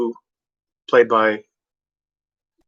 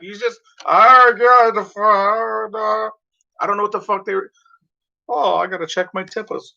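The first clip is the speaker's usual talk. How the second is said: angry rant; 9 semitones higher than usual. Retold or imitated. Continuing the road rage rant.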